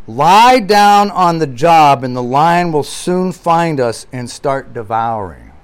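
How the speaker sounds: Lie down on the job read slowly, fading at the end; slow quoted warning. Retold or imitated. Preacher reading Gordon Clark, slow and grave. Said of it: "he says".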